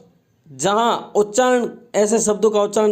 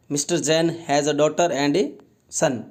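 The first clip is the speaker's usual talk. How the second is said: slow reading aloud; much slower than usual. Shown as a demonstration. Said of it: "teacher reads sentence slowly".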